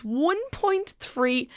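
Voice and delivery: excited emphasis. Real, not acted. Emphasising the huge number.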